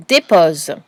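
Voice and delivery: one word set apart and dictated clearly; teacher reading a dictation word. Shown as a demonstration. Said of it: "Le deuxième mot".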